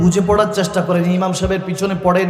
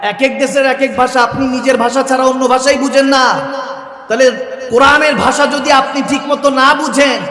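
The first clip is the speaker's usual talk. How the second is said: higher, louder sermon exhortation; full-force preaching; 6 semitones higher, 3 dB louder than usual. Real, not acted. Preacher warning the congregation against fooling themselves, full-force preaching. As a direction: press it on the crowd, loud and high.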